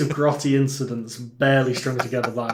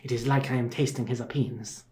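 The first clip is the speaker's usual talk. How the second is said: thick put-on Italian accent, hammed up as the devout killer; Italian accent playing Tredoni for laughs; mock Italian accent; 5 dB quieter than usual. Mocking Tredoni's devotion to Father Tom, in a hammy Italian accent. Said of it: "that accent you're doing".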